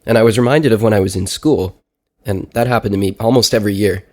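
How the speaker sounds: stuffy blocked nose, sick with a cold. Real, not acted. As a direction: talk like there's a clothespin on your nose. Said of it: "I sounded more like I sound right now, which is like I have a clothespin on my nose".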